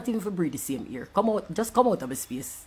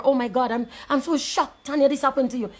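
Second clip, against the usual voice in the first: mock shocked media; 4 semitones higher than usual. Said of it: "they're acting like".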